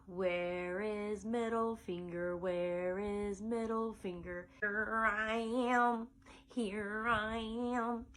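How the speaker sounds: lightly voiced old grandpa, slow; a hint of a creaky old man, drawn out; a mild grandpa impression in song. Shown as a demonstration. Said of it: "he's gonna have a grandpa voice".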